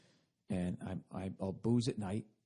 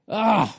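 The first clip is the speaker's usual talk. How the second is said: loud exhaled "ah"; 9 semitones higher, 14 dB louder than usual. Real, not acted. Groan after the screamed song.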